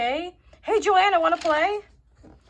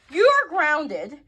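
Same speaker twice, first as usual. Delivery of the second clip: slow, stern parent's verdict; much slower than usual. Acted. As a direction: lay down the punishment slowly. Parent punishes daughter.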